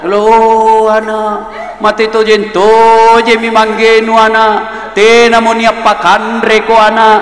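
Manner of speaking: slow, drawn-out lament in Makassarese; mock wailing widow. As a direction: ham up a grieving widow's keening. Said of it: "canggih sekali menangisnya". (ratapan janda yang dibuat-buat, pelan)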